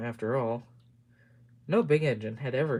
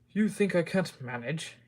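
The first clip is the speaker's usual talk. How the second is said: huffy; 4 semitones higher than usual. Acted. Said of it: "he said huffily".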